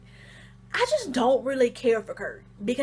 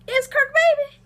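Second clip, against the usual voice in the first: high, raised-voice stunned echo; acted incredulity; 13 semitones higher, 4 dB louder than usual. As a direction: repeat the news as if you cannot believe it. Re-enacting disbelief at the news.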